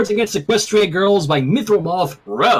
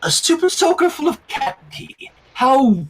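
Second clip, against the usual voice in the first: grossed-out disgust; 7 semitones higher than usual. A narrator's reading. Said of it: "then turned green".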